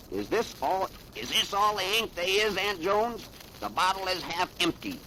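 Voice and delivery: a hint of a small boy asking for ink; little Sweet Pea voice. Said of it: "Sweet Pea's got a bad voice for a little guy".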